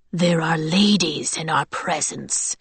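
slow, whispery rasp; a hushed, drawn-out reprimand from a beast-man; menacing mutant. A narrator's reading. Mutant rebukes brawling soldiers.

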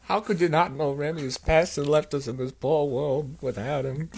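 high, loud mock lament; hammed-up, choked-up heartbreak; tearing up. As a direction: build a tearful speech of grief. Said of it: "I'm trying to tear up".

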